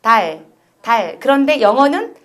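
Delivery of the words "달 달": 달 slowly, tongue held forward on the L; exaggerated tongue position. Shown as a demonstration. Teacher demonstrating practice drill, slow 달 with forward tongue. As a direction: draw out 달, tongue out as for th. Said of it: "티에이치 발음할 때".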